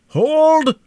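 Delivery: high, very loud commanding shout; father halting the gunfire, anguished shout. A narrator's reading. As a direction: stop them with one cry. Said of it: "shouted the former speaker".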